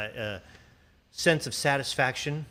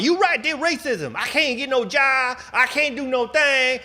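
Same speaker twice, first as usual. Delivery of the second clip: much higher, slow mocking complaint voice; mock whiny complainer; 9 semitones higher, 5 dB louder, slower than usual. Host mocking a complainer he imagines, high and whiny. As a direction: parody the complaint in a high whine. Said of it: "Don't scream about".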